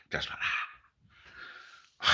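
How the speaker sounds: slow whispered catchphrase; whispered Tommy Cooper. Retold or imitated. Comic whispering Tommy Cooper's catchphrase, slow. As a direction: breathe it out slowly. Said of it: "my Tommy Cooper impression".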